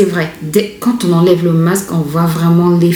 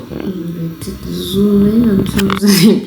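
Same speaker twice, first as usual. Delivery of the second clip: hampered speech through a dried face mask; stiff-mouthed talking; 2 semitones higher than usual. Real, not acted. Vlogger back on camera with mask dried on, stiff-mouthed. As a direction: drag the words out, mouth barely able to move. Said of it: "je n'arrive même pas à bien parler".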